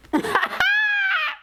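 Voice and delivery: a high, shrieking burst of laughter; a real shriek of laughter. Real, not acted. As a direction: crack up and shriek with it.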